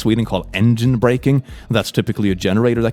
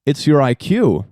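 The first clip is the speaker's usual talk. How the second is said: sassy. Pretend. Sassy teacher roast.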